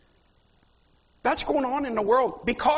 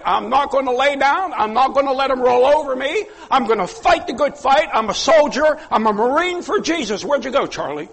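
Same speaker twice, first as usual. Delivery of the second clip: builds louder and higher to a rallying shout; rally the church like a soldier; rising battle cry; 3 semitones higher, 5 dB louder than usual. Real, not acted. Preacher building a fighting declaration.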